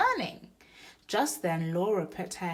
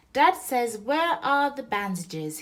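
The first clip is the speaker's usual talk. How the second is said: loud, high urgent call; yelling; 7 semitones higher, 9 dB louder than usual. Acted. Boy rushing in for the bandages, loud yell. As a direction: shout it across the bedroom. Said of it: "he yelled".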